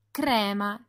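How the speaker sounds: "Crema" avec le R roulé; R roulé italien. Shown as a demonstration. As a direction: roule le R de "Crema". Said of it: "se prononce toujours au lait". (« Crema » à l'italienne, R roulé)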